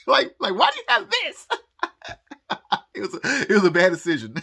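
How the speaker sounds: very high, loud mock question cracking into laughter; laughing hard. Real, not acted. Vlogger imagines being questioned about the package, laughing hard. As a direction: barely get it out through real laughter.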